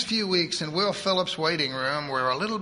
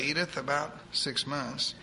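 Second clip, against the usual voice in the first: softer repeat; 5 dB quieter than usual. Acted. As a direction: let it settle gently. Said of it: "answered almost triumphantly".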